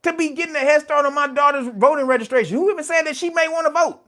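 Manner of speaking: rip into them like an angry mother; outraged yell. Retold or imitated. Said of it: "I'm like".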